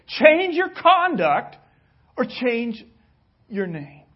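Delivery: slow, loud command fading out; stern ultimatum. Pretend. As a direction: press each word, then let it drop. The speaker repeating king's ultimatum.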